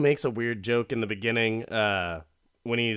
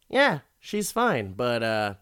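taunting him before the shot; smug menace; smug villain. Retold or imitated. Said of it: "Bruckner's like".

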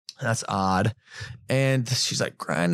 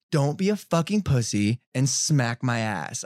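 slow, measured goading at usual pitch; deliberate mock taunt. Woman goading the boxer, slow mock taunt. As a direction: draw out her challenge word by word.

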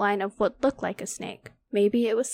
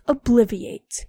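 loud spell shout; yelled; 5 dB louder, slower than usual. Acted. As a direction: yell the spell out.

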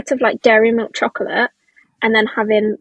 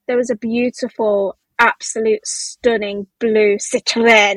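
slow build-up to a mock French car name; sudden French pronunciation; 3 semitones lower, slower than usual. Teasing a friend's sudden switch, mock French Citroen. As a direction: imitate a friend going French on the last word. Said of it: "whereas you will fully be like".

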